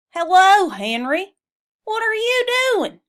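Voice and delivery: high, loud whinnying horse voice; neighing horse. Acted. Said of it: "neighed Mister Brown".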